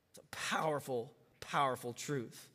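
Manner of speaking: near-whispered, soft and intimate; hushed. Real, not acted. Pastor speaking softly to grieving listeners, hushed. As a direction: lean in and whisper the truth.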